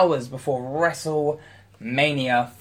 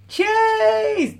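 high mock toast; 3 dB louder than usual.

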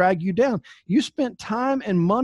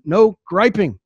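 firm and louder; clean version; 5 dB louder, slower than usual. Shown as a demonstration. Coach restating the rule to the team, louder and firm. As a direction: announce the clean rule firmly. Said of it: "That's the clean way of saying it".

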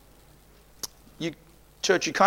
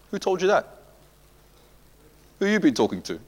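pointed question; 7 semitones higher, 4 dB quieter than usual. Real, not acted. Rhetorical question to congregation.

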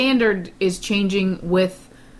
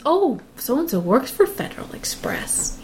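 put-on higher-pitched gossiping old lady; imitated chatty old lady; 5 semitones higher, 3 dB quieter than usual. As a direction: mimic idle old-lady chatter, drawn out. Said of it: "somebody, one of their sons".

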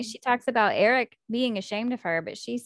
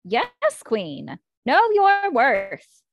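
hyped cheer; 5 dB louder, much slower than usual. Pretend. Cheering the heroine on.

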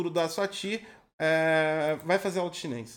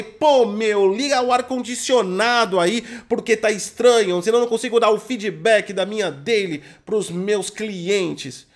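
put-on São Paulo accent; 4 dB louder, slower than usual. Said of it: "Aqui em São Paulo é".

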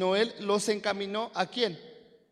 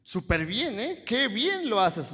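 acted burst of admiration, pitch jumping up; admiring praise; 3 dB louder, slower than usual. Preacher voices someone complimenting a listener, admiring. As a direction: gush praise, drawing out the last compliment. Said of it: "¿Alguna vez te han dicho".

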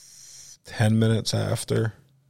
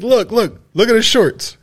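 much higher, louder, pointing out the shorts; mock callout; 12 semitones higher, 6 dB louder than usual. Comic calling everyone to look at his shorts, loud. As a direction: call the room's attention.

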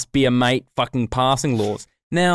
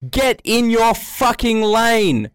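retold yell; 8 semitones higher, 4 dB louder, much slower than usual. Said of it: "I yelled out the window".

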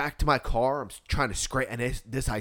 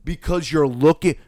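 slow, high, building to very loud; outraged disbelief; 5 semitones higher, 8 dB louder, slower than usual. Retold or imitated. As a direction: stretch each question out, incredulous, then blow up.

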